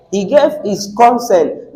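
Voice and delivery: "consent" with weight on the first syllable, second dropping; noun stress. Shown as a demonstration. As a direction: lean on the opening of "consent". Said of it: "let's go with the noun pronunciation".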